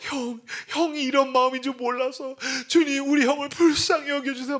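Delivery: tearful prayer. Retold or imitated. Younger teacher praying while sobbing.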